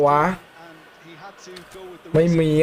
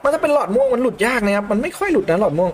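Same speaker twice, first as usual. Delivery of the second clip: ordinary talk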